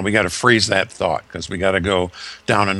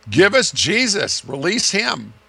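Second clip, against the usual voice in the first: crowd demanding; 10 semitones higher than usual. Retold or imitated. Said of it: "that's what they would have decided".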